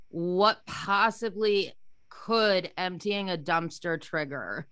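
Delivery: slow, drawn-out incredulous question; baffled exasperation. Retold or imitated. Woman baffled by her own dumpster trigger, exasperated.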